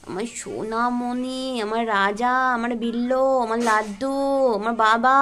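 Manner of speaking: cooed, drawn-out pet names; fond sing-song cooing. Real, not acted. Pet names to a small child.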